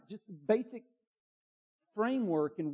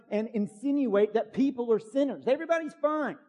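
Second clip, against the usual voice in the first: raised, louder voice of an offended scoffer; mock indignant scoffer; 3 semitones higher, 4 dB louder than usual. Voicing scoffers' indignant retort.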